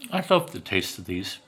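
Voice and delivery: talking with a mouthful of cake; speaking through a mouth full. Real, not acted. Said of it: "Sorry, speaking with my mouth full".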